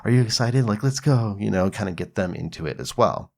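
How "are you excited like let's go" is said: put-on playful hype to kids. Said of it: "You can be like".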